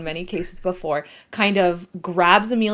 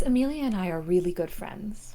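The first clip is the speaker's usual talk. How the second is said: whisper; 5 dB quieter than usual. Acted. Drunk friends chatting.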